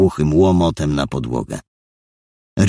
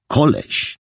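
koleś sneered high, falling; contemptuous koleś; 10 semitones higher than usual. Acted. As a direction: spit out koleś with scorn. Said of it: "Z tonu, jakim wypowiedział".

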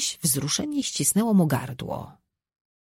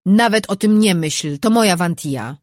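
growled warning; 4 semitones higher, 6 dB louder than usual. A narrator's reading. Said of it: "warknął czart".

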